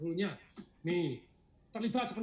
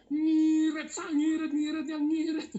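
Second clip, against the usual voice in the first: mock shout; 10 semitones higher, 11 dB louder, slower than usual. Mocking the frugal spender.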